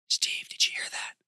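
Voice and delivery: urgent whispered question. Acted. Michael hears a voice in the woods, whispering. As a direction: whisper it to a friend nearby. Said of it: "he whispered".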